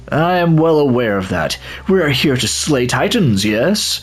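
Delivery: a lightly put-on eager warrior, thrilled. Player voicing an eager warrior greeting the others, keen. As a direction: voice a fighter itching for battle. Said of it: "I don't know why I'm using this voice".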